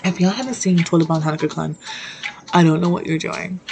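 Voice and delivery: talking through a mouthful of hot chips; words round a bite of spicy chips; eating hot chips. Real, not acted. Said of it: "I'm eating hot chips right now".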